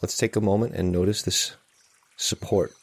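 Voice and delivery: calm, unhurried meditation guide; guided meditation. Real, not acted. Meditation teacher settling listeners into a morning sitting, calm guided meditation. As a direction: lead them gently, with long silences between phrases.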